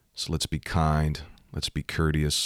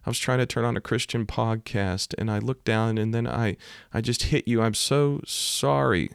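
high-pitched mock-weepy voice; imitated tearful apology; 6 semitones higher than usual. Woman apologizing after rear-ending him, imitated tearful voice. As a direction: imitate a distraught driver wailing sorry, much higher. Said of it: "She's just crying".

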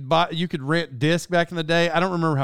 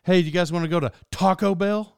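buddy's odd "Taco", hit on the first word; imitating a friend, punch "Taco" over "Bell"; stress on Taco. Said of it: "buddy from high school".

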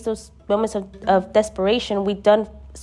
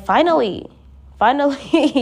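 God's relief; 6 semitones higher, 4 dB louder than usual. Retold or imitated. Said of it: "it's like".

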